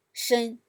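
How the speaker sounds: SHEN held high and level; "shen" in Chinese first tone, high and flat. Shown as a demonstration. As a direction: say "shen" at the top of your range. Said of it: "highest voice".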